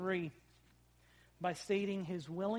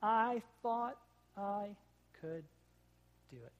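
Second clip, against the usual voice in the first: halting, broken-up words of a hurt child, lightly imitated; mock crying kid; slower than usual. Dad retelling his crashed son's answer, halting mock sobs. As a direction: stop between every word like a little boy in tears. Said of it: "And in his tears".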